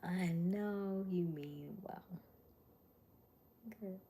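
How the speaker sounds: slow unvoiced whisper. Shown as a demonstration. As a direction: breathe it slowly without voice. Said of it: "repeated whispered".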